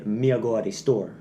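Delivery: patois rhythm on "Me a go a the store", short "a" linking each word; Jamaican patois sentence. Shown as a demonstration. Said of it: "In patois, you say".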